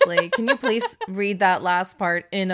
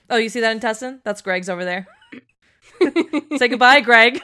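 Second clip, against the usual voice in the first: laughing mock hag; 3 semitones higher, 7 dB louder, faster than usual.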